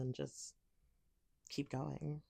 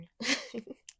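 louder, higher burst of giggles; teasing laugh; 6 semitones higher, 7 dB louder than usual. Acted. Amused by the partner, teasing laugh.

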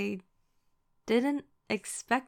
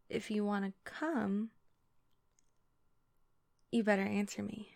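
put-on Valley Girl voice. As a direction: play it like a Valley Girl tease. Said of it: "my Valley Girl voice".

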